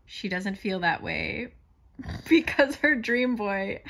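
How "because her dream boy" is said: louder, giggling at her own joke. Real, not acted. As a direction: laugh it out. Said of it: "why that's making me giggle".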